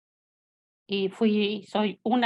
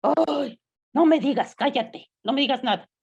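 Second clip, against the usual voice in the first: mock friend's protest; 5 semitones higher, 4 dB louder than usual. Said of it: "Y me dice".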